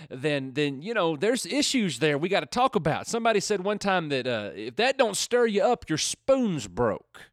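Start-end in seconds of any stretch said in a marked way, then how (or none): 4.6-7.2 drawn-out Southern saying; folksy Southern accent, stretched last words. Acted. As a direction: quote it in your best Southern accent. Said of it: "my best Southern accent".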